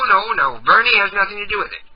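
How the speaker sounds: usual speaking voice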